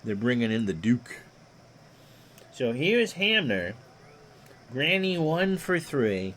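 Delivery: lightly voiced old radio play-by-play; a hint of a veteran baseball announcer; Ron Juckett impression. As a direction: call it like a ballpark broadcaster, easy and even. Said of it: "I do a mean Ron Juckett impersonation".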